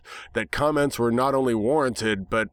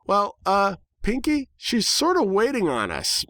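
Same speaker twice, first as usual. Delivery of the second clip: higher, prodding tone; impatient; 10 semitones higher than usual. A narrator's reading. Dash prods the distracted Pinkie, a touch impatient. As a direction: nudge her along, mildly impatient. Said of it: "Dash pointed out impatiently".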